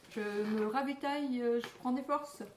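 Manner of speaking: eating while talking; chewing while talking. Real, not acted. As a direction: talk through a mouthful. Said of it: "si vous m'entendez manger".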